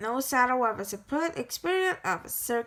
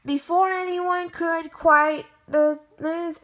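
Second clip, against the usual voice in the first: louder and higher, racing to tell the danger; excited storytelling; 6 semitones higher, 6 dB louder than usual. A narrator's reading. Narrator telling listeners of the loose lion, excited and urgent. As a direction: pump up the urgency as the hero rushes in.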